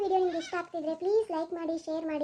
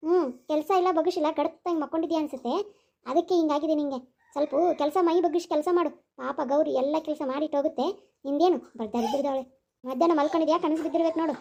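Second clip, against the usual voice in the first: scolding elder woman; 5 semitones lower than usual. Acted. Mother scolds lazy daughter-in-law.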